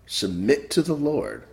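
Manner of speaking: rising and falling sermon cadence, punching key words; preaching. Acted. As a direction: exhort the flock to fear the Lord. Preaches to congregation.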